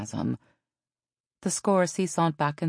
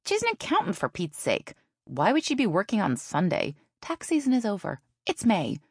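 exasperated sister; 6 semitones higher than usual. A narrator's reading.

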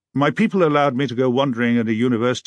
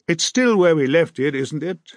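sneering; 6 semitones higher, 5 dB louder than usual. A narrator's reading. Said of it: "his friends sneered".

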